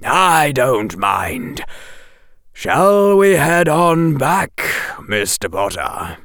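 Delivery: slow, deadpan; lightly voiced sardonic professor; dry Quirrell. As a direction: say it flatly as a joke.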